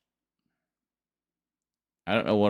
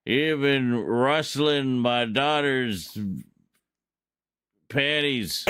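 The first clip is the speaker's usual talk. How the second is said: slow drawn-out gunslinger threat; cowboy outlaw; 3 semitones higher, slower than usual. Pretend. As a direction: play the tough Western outlaw. Acting out Outlaw cowboy taunts.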